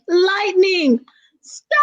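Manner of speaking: high, long-held scream on "stop"; mother's hammed-up yell at her child, stretched out; loudest voice. A narrator's reading. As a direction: shriek the last word and hold it. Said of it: "Her loudest voice".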